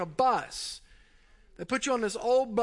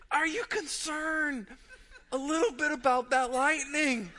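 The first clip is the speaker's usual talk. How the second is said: nervous polite question; 4 semitones higher than usual. Retold or imitated. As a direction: ask it politely while scared. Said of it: "I said".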